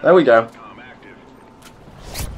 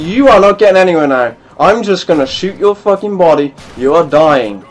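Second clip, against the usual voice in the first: louder, fast angry taunt; 2 semitones higher, 4 dB louder than usual. Real, not acted. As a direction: spit it at the enemy, fast and loud. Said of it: "I liked my raging".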